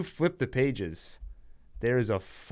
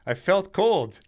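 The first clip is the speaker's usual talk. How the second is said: ghost voice; 6 semitones higher, 3 dB louder than usual. Pretend. Ghost joke voiced, laughing.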